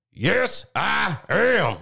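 high squeaky movie-quote yelp, lightly done; Nutty Professor impression. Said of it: "The Nutty Professor".

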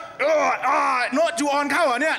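put-on high, loud drunken shout; slurred shout like a drunk; drunk friend. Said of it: "ไอ้โน้ตกินเบียร์ก็".

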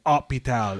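hôpital said the French way, silent H. Shown as a demonstration. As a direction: drop the H in hôpital, French style. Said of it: "when they say H".

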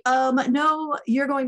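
retold shout. Colleague deaf in one ear booming at the speaker, loud and insistent. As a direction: imitate him booming the order. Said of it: "So he shouted".

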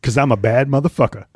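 Samuel L. Jackson impression. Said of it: "I can't do his voice great".

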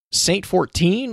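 high, drawn-out mock disbelief; incredulous squeak, stretched and rising; astonished question. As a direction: imitate someone stunned by a famous name. Acting out her astonished recognition.

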